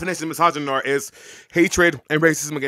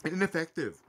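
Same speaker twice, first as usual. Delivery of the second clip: mouth full. Real, not acted. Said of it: "I'm inhaling my food".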